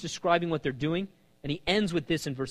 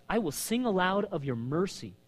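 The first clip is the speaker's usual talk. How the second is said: quieter, dwelling on the line; softer savoring; 4 semitones higher than usual. Acted. Preacher savoring the verse he loves, softer. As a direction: savor the words gently. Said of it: "Notice, I love this".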